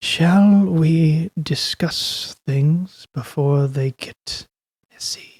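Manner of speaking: gentle, mild-mannered, very slow, drawn-out delivery. Voicing a towering creature looking down at a character: soft-spoken voice. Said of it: "in a soft-spoken voice".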